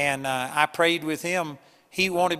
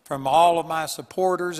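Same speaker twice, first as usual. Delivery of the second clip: crying out to God; 3 semitones higher than usual. Retold or imitated. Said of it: "he was just crying out".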